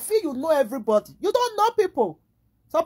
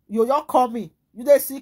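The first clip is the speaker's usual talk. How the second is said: mock harsh husband; 5 dB louder than usual. Voicing Nigerian man's harsh retort.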